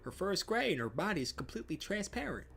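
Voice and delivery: put-on a kid bragging about a rare cat; excited kid.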